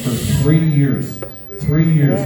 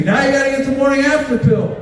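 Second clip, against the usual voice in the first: retold scream; 9 semitones higher than usual. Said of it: "she screams at me".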